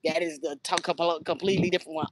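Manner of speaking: low, soft correction, said under the breath; softly setting a stranger straight about the twin; quiet correction. Retold or imitated. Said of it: "I was like".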